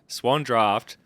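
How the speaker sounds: slow savouring of the beer name; drawn-out relish. Real, not acted. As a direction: stretch the beer name out lovingly.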